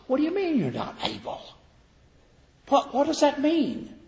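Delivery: high, incredulous challenge. Acted. Preacher challenging the congregation, incredulous and high. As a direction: demand what that even means.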